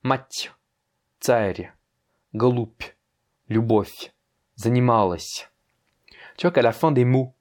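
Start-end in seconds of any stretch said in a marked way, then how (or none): 0.0-5.5 each Russian word ending on a softened consonant; soft sign endings. Shown as a demonstration. Teacher reads the right column to a learner, soft endings. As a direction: palatalise the final consonant, a tiny y after it. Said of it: "je vais te prononcer avec un signe mou à droite".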